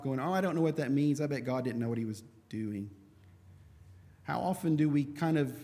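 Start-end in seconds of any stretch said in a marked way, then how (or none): 0.2-2.9 mock careless dismissal, rattled off fast; brushing it off. Careless Bible reader waving off a hard passage, mock dismissive. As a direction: hurry through it like a careless shrug. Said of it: "just kind of brushing it off".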